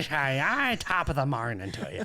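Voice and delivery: hammed-up Irish greeting; Irish accent demo. Shown as a demonstration. Host showing co-host the greeting, Irish accent. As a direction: model a stagey Irish accent. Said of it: "it's marnin'".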